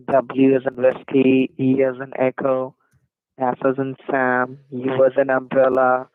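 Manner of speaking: spelling with a phonetic alphabet; letter by letter like a call-center agent; dictating. Shown as a demonstration. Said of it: "now read it back to me".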